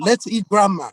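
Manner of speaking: "Let's eat grandma" in one unbroken run; "eat grandma" joined up, as if grandma is the meal; no pause before grandma. Shown as a demonstration. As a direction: read "Let's eat grandma" without the comma. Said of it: "not concerned about the proper context and the intonation".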